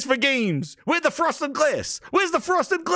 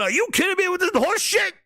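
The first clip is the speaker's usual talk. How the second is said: outraged Herman; 5 semitones higher than usual. Acted. Imitates Herman storming out.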